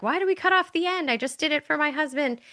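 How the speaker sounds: high, puzzled quoted question; puzzled granddaughter. Retold or imitated. Granddaughter asks grandma about the tradition, puzzled.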